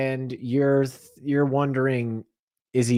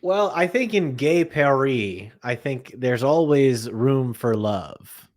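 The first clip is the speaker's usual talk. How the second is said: put-on French accent; slower than usual. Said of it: "You were doing your French accent bit".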